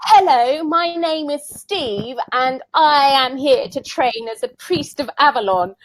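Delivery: imitating Steve. Steve introducing himself at the shop, mock-solemn. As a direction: announce it like a solemn would-be priest. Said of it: "And he was like".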